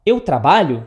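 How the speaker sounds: "eu trabalho" turned into a question by tune alone; question intonation. Shown as a demonstration. Teacher showing how Portuguese asks, "eu trabalho" in question intonation. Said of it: "só muda a entonação da voz".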